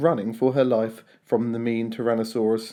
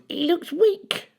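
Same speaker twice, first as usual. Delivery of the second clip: grumbled; slower than usual. A narrator's reading. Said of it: "she grumbled".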